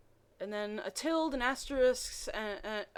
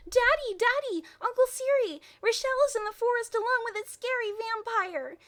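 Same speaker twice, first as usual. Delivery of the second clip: put-on much higher, louder, frantic child's cry; hysterical shout; 13 semitones higher, 6 dB louder than usual. Nicola screaming to her father about the vampire. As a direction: scream it in a panic. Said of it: "Nicola shouted hysterically".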